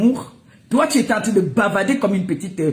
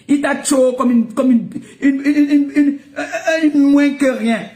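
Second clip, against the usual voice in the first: laughing mockery; 5 semitones higher, 3 dB louder, slower than usual. Real, not acted. Mocking a rival while laughing.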